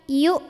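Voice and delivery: "Yu" ended abruptly by a glottal stop; pressed, held hamzah. Shown as a demonstration. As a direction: say "Yu" and stop dead.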